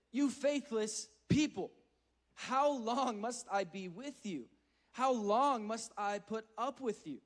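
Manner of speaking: slow, loud frustrated reproach; frustrated Jesus. Acted. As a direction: scold the faithless crowd, weary and stern. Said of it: "we see Jesus gets a little bit frustrated".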